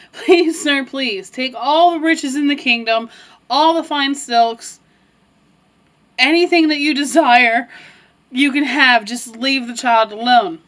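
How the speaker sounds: pleading. Acted. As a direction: beg him to spare the child, understated. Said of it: "And she begs him".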